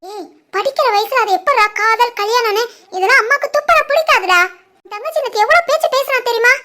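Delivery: mother scolding her son about love marriage. Acted. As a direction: chide the son from up high.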